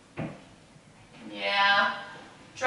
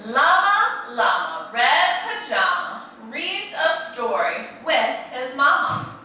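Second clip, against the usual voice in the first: sing-song picture-book rhythm; animated read-aloud to a class; reading to children; 3 semitones higher than usual. A narrator's reading. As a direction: lilt it like a bedtime story for little ones. Reads rhyming picture book aloud.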